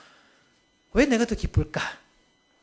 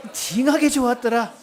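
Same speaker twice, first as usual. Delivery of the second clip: higher Jeolla-flavoured chant; Jeolla dialect; 4 semitones higher than usual. Shown as a demonstration. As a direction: lead it with a Jeolla lilt. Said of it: "전라도 버전 네 가지나 있습니다". (높은 톤의 전라도 사투리)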